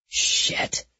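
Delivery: breathy whispered swear; whispered curse. A narrator's reading. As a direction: whisper it in dismay. Bad news on phone.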